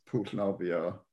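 "pool nofio" said as Welsh words; Welsh pronunciation. Shown as a demonstration. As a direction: Welsh phrase "pool nofio", natural native sound. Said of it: "a swimming pool would be".

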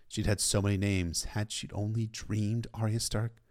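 usual speaking voice

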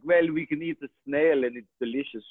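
mock French accent, playful; hammed-up French seduction. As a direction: put on a cartoon French accent. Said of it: "they almost make them hairy armpit sexy".

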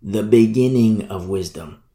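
BEGINNING stretched, falling low; emphatic repeat. Shown as a demonstration. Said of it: "I'll even say it again".

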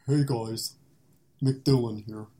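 McDillon voice. Pretend. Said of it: "do your McDillon voice".

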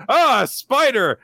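high, slow startled shriek; mock fright. Girls in the dark cavern, high mock shriek. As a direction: squeal at a spider in the dark. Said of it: "They're like".

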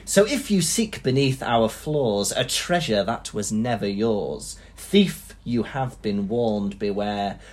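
slow, portentous verse reading; poem recitation. Acted. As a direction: intone it as a solemn warning to thieves. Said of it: "I'm gonna read to you, uh, the poem".

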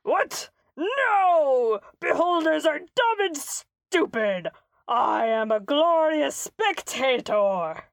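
indignant outburst. Acted. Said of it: "the guy's like".

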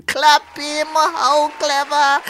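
loud, slow sarcastic praise; mock praise. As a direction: praise it with a sneer. Host mocking contestant.

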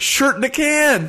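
high squeaky announcer; mock ad voice. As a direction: chirp it like a silly ad.

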